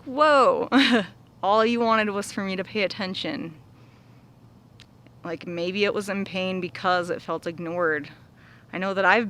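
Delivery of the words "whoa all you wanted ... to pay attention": laughing surprise. Retold or imitated. Heart's pain suddenly disappears.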